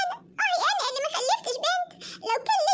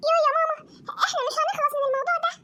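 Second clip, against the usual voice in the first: whiny protest. Acted. Loli whines to her mother about the marriage talk. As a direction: whine like a girl who's had enough.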